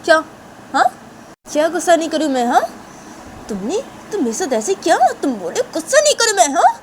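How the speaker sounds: shrieking high and loud in outrage; outraged shrieking; furious screaming. Acted. Shanaya rages at Tisha's apology.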